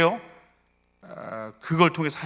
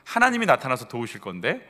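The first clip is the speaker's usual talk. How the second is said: gentle self-questioning. Acted. Models talking to one's own soul.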